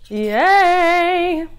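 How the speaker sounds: loud high Yay; cheer. Real, not acted. Vlogger cheers at her salad, loud and high.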